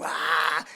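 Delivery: drawn-out mock wail; imitated crying yell. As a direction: act out yelling the pain out. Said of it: "and we're yelling".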